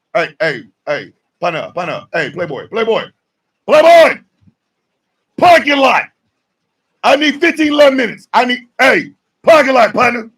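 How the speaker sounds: playful threat escalating to a shout; mock call-out. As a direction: call him out to the parking lot. Calling someone out to parking lot.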